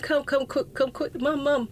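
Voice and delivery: put-on child begging mum to come quick, frightened; panicked child. Child calling mum about the bitten brother, high and panicked.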